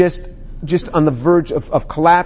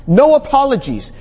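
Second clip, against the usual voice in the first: lightly voiced God, raised higher; voicing God; 7 semitones higher than usual. Preacher voices God to the congregation, firm. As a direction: speak for God, firm and unapologetic. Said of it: "God says".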